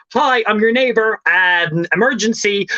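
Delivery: high-pitched, hurried-polite emergency greeting; urgent introduction. Retold or imitated. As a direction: imitate announcing an emergency to a neighbour.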